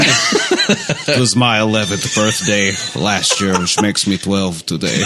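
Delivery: laughing mock quote. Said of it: "giving, like, an asinine description".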